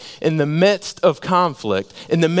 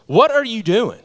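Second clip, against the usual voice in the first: sharp nurse; 7 semitones higher than usual. Retold or imitated. Head nurse scolding new surgeon.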